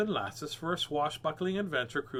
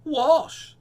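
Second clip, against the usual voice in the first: matter-of-fact; 11 semitones higher, 11 dB louder than usual. Acted. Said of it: "said the mermaid, matter-of-factly".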